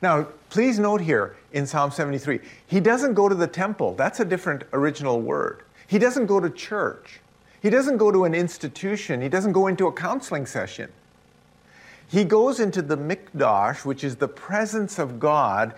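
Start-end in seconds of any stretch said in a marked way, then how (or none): 2.6-10.9 "doesn't" hit high each time; emphatic negation. Real, not acted. Preacher to congregation, stressing "doesn't" high. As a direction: stress "doesn't" in every line. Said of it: "preacher stresses repeated negations".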